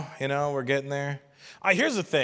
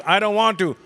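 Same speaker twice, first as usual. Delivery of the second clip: higher, loud whine; whiny kid; 5 semitones higher, 7 dB louder than usual. Retold or imitated. Kid refusing the dishes, loud whine.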